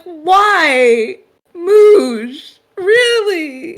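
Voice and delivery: loud, high mock wail; distraught. The speaker laments that Moosh licked the drink, hammed-up distraught wail. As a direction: wail each word in hammed-up dismay. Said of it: "now just looks distraught".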